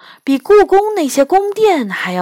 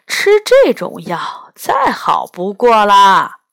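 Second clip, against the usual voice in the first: put-on slow, unhurried old man explaining herbs; an old immortal musing over a flower; old healer voice. 老神仙讲草药. (慢悠悠的老者语气)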